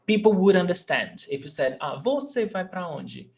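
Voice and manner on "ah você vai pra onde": "você" stressed on VO inside a casual question; shifted stress. Shown as a demonstration. Teacher shows people would still understand, "você" stressed on VO. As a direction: say "você" as VÓ-ce, softer. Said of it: "if you change the stressed syllable".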